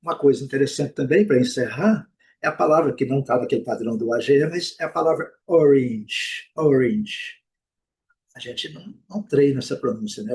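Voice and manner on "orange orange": orange said OR-inge. Shown as a demonstration. Teacher introduces a last word for learners, A as I. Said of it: "o A com som de I".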